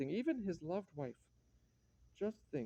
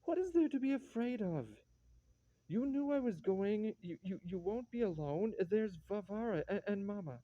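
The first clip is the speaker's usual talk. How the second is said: higher, flustered protest; exasperated reassurance; 4 semitones higher than usual. Acted. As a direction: brush off a wife's fears, stumbling over it. Husband dismisses wife's fears.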